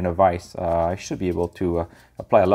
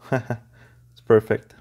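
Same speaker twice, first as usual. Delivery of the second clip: laughing; much slower than usual. Real, not acted. Laughing at the mess.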